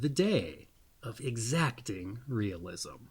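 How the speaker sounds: measured, deliberate reading of a birthday profile; reading a horoscope. Acted. Host to viewers, reading their birthday reading aloud in a measured voice. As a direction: read it out like an astrology entry, unhurried.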